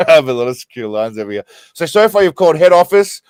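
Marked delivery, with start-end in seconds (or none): 0.1-1.4 rereading the line while laughing; can't get the words out for laughing; cracking up mid-line; laughing through it. Real, not acted.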